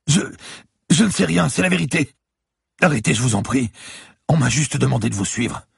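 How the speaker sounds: a beaten lawyer gasping in fear; frightened bleeding man pleading with the cop; terrified captive. Acted. Lawyer begs.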